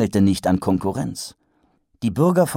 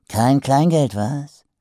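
excited trader; 6 semitones higher, slower than usual. Acted.

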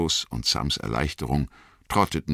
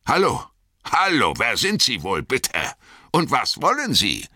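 a higher, lightly voiced farmer calling out; wary farmer; 8 semitones higher than usual. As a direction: greet strangers as a suspicious farmer. Farmer challenges strangers at gate.

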